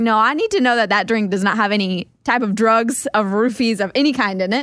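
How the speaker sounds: usual speaking voice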